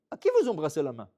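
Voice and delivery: loud, rising outraged shout at the crowd; angry shout. Retold or imitated. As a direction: scold the crowd in disbelief. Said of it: "Et il crie".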